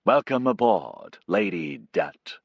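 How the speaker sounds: put-on slow, suave old-film charm, lightly done; a hint of a debonair matinee idol; Cary Grant. Pilot Casey greeting Bisesa, mock suave. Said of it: "Casey started to talk like Cary Grant".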